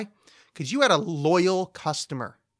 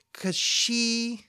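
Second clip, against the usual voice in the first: breathy whisper; 7 semitones higher than usual. Real, not acted. Gushing about favorite artist.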